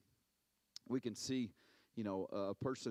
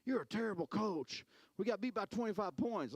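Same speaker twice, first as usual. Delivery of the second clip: higher, louder mock complaint; a hint of a blaming parent; lightly voiced scolding parent; mock angry parent; 9 semitones higher, 3 dB louder than usual. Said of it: "parents aren't pointing the finger at me going".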